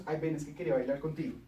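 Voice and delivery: fast, hurried mock ask; mock nervous invitation; rushed plea. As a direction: rattle off the request quickly. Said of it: "Después de cinco minutos".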